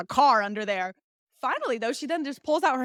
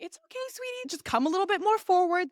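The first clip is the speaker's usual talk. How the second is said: soothing doctor; 7 semitones higher than usual. Retold or imitated. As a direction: mimic coaxing a nervous patient, pitched way up. Imitates doctor coaxing patient.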